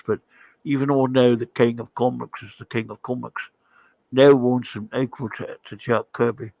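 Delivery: put-on a rough English accent musing about Kirby; Alan Moore impression. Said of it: "Alan Moore".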